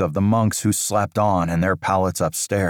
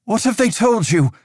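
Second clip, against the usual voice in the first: menacing tone; 4 dB louder than usual. Acted. Aldous demanding answers from the priest, menacing. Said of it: "the menace in his tone".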